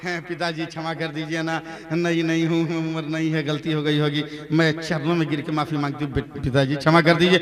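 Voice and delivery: low, soft tearful begging; pleading. Acted. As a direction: beg forgiveness meekly. Bride pleading for forgiveness. (गिड़गिड़ाती बहू)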